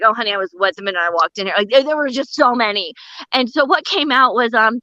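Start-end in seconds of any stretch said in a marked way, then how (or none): 0.0-1.5 fast, lower, saucy aside; saucy thought. Retold or imitated. Comic's unspoken retort to the dentist, fast saucy aside. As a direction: rattle off the dirty thought under your breath. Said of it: "I was like".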